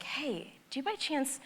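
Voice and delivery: hushed question. Retold or imitated. Traveller leans to the woman next to her, soft hushed ask. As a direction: lean close and ask quietly. I lean over to this lady.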